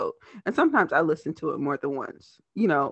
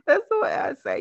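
playful high; 14 semitones higher than usual. Real, not acted.

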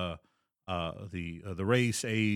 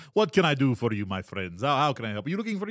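a hint of a snooty merchant; highbrow merchant. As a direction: lightly lean into a posh shopkeeper. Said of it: "a highbrow sort of merchant".

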